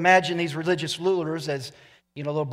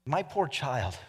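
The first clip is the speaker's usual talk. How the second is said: gentle Pope; 7 dB quieter, slower than usual. Retold or imitated. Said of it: "He said".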